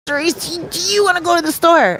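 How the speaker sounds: light high voice of a little sister; imitating sister. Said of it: "She's like".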